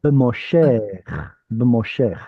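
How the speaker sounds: B'moshech with a short schwa after B; B'moshech demo. Shown as a demonstration. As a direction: say B'moshech as b'-mo-shech. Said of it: "So I would make it more like a B".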